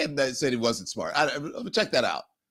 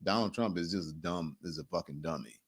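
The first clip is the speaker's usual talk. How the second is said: hushed, much softer and lower; mock whisper; 9 semitones lower, 10 dB quieter than usual. Host imitating Vance whispering the insult. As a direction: whisper it like a guilty secret. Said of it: "he's like".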